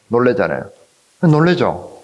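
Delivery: ordinary talk, nothing marked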